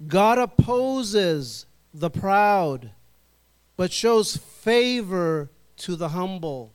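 very slow, each word weighted, GOD and SHOWS stressed; preacher rereading the verse extra slowly for emphasis. Shown as a demonstration. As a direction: drag it out so no one misses it. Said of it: "Let me just read that again in case you didn't hear it".

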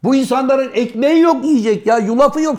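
rising mock-outraged protest; indignant retold rant. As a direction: imitate an outraged objection, pitch climbing. Retold indignant objection, acted out.

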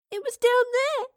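put-on very high, loud child's wail; tearful girl, pitched far up; sobbing little girl. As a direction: cry it out like a frightened child. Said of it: "sobbed the girl".

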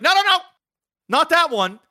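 put-on high, loud whiny child; whiny kid voice. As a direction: pitch it up like a picky kid. Son's refusal voiced by dad.

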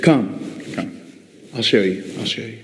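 lightly voiced ringleader. Ringleader invites the monkey.

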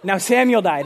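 abrupt retold reading, no lingering; sudden announcement. Retelling the shock of the devotion's words, abrupt. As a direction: drop the news suddenly. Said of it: "just a sudden, like".

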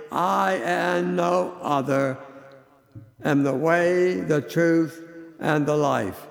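"I" and "no other" pressed; emphatic. Shown as a demonstration. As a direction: insist that no one else is the way.

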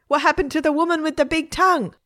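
put-on high, demanding child listener; high-pitched indignant question; indignant girl. A narrator's reading. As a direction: demand the rest of the story.

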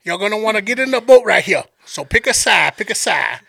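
lightly played Cajun guide instructions; Sambo's Cajun accent. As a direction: direct passengers in a Cajun accent. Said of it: "I'm gonna play this dude's accent".

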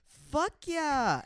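high, loud whoop; excited cheer. Retold or imitated. Girl agreeing with Jaden about the band, excited shout. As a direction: imitate a girl cheering back, thrilled.

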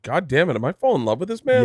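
mock smitten. Mock swooning quote.

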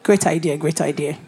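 Jesus voiced.

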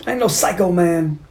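high, put-on protesting voice; mock villain protest. Bad guy denying he is a psycho, mock protest. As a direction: object in a high imitation voice.

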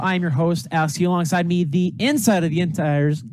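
loud, high ringmaster announcing. Acted. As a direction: boom it out like a circus host. Premiere intro announcement.

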